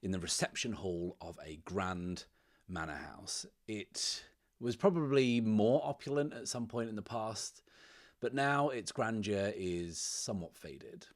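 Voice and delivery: measured game master storytelling with deliberate pauses; unhurried storyteller setting a scene; scene-setting narration. A narrator's reading. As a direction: narrate the opening scene, phrase by phrase.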